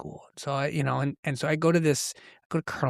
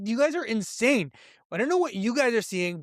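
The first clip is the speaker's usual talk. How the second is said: mock disbelief; 6 semitones higher than usual. Kid disbelieving teacher's choice.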